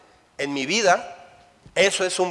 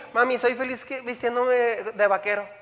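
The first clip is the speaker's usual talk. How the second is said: put-on child's voice; 3 semitones higher than usual. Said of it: "siempre el niño".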